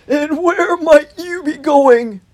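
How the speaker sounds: loud, slow, swooping question; welcoming hedgehog. A narrator's reading. Holgate asking the newcomer his business, loud and slow. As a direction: draw the question out in a big voice.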